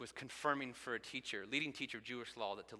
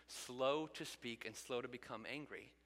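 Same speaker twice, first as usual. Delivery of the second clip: slow scripture reading; slower than usual. Acted. Scripture read slowly.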